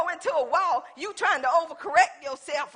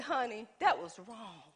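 sincere apology; 4 semitones lower, 6 dB quieter than usual. Retold or imitated. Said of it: "and I said".

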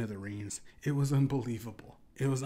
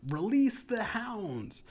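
higher, drawn-out mock yell; imitated yell; 10 semitones higher, 4 dB louder, much slower than usual. Storyteller imitating the rapper onstage, mock yell. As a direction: call it out high and slow, imitating a performer. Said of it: "A rapper yelled out".

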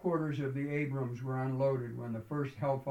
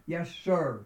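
officers' answer; 4 semitones higher, 5 dB louder than usual. A narrator's reading. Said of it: "was the only answer heard".

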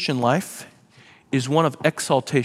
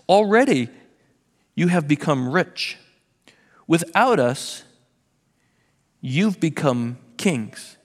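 dripping sarcasm; slower than usual. Retold or imitated. Paul mocking the church's claim to be mature, sarcastic. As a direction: lay the sarcasm on thick, like a parent to a kid who's out of it. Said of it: "This is just dripping with sarcasm".

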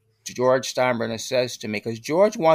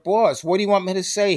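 exasperated; 7 semitones higher, faster than usual. Retold or imitated. Exasperated answer to the boss.

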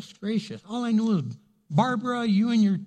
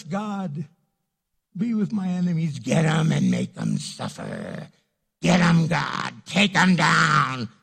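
mock vengeful prayer; 4 semitones lower than usual. Congregation's wrong way to pray for enemies, hammed-up vengeful. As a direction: pray for payback like a cartoon villain. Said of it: "we pray like this".

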